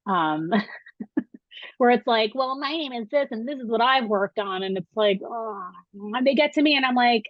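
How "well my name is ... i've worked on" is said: lightly hammed-up boastful faculty intro; mock bragging professor. Professor mocking colleagues bragging on the first day, lightly hammed-up. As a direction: puff up a little like a self-important colleague. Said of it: "what I call a dick swinging contest".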